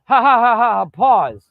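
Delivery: a flat, read-out "ha, ha, ha" then "pause"; mock fake laugh. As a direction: laugh like it's written on the script. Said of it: "And he's like".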